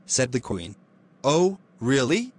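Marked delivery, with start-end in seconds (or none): 1.2-2.3 mocking imp. Imp mocks the queen.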